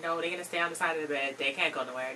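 low, very soft, quick retold refusal; quiet firm refusal. Mom not letting nurses take the kids, quiet refusal. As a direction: imitate a mother refusing under the breath.

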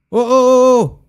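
high loud drawn-out alarm; alarmed shout. Real, not acted. Spotting danger on screen, loud alarm. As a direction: cry out in sudden alarm.

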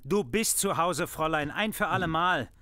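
strict father ending the argument; angry. Acted. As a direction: hammer each word home. Father lays down the law.

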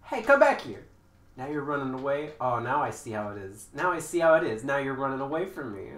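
loud hammed-up yelling after a fleeing player; mock angry. Gamer calling after a fleeing opponent in mock anger. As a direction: shout at them to come back, half joking. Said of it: "I wanna be angry".

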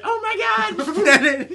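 high, drawn-out terrified shriek; panicked scream. Pretend. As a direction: scream like a kid trapped inside. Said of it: "It's gonna be like".

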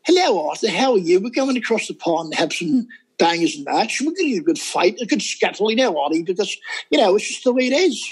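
lightly put-on English accent; amateur British accent impression. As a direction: play a chatty English visitor, lightly. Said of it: "I started doing an English accent".

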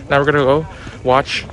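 winded from a long walk; a little short of breath. Real, not acted. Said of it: "sorry, I'm winded".

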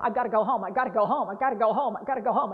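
lightly voiced patient repeating I've gotta go home; mild looping plea; repetitive demo. Shown as a demonstration. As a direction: drone it over and over. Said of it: "I can't stop saying something over".

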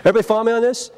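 high laugh carrying into the question; laugh, then ask the room through it. Real, not acted. Trainer laughs at an audience joke, then checks in.

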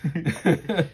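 cartoon boing. Echoes the boing sound effect.

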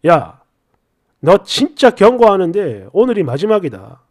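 low-pitched, threatening acted husband; menacing. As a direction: give a final warning with cold, controlled anger. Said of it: "살기를 막 뿜으면서".

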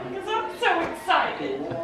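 happy crying. Real, not acted. Wife answering why she's crying, happily tearful. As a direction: softly overcome with excitement. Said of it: "Why are you crying?".

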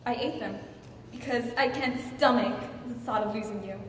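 soft, halting admission with long pauses; subdued confession. Acted. Wife admitting the truth to Charles, subdued. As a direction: let the bravado drop and confess quietly. Wife's deflated confession to husband.

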